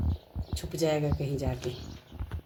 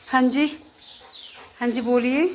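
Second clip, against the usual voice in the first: high, loud, lilting reply; indulgent pet-talk; 6 semitones higher, 5 dB louder than usual. Real, not acted. Owner answers her dog as if it spoke, high pet-talk. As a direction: answer a pet with a raised, questioning lilt.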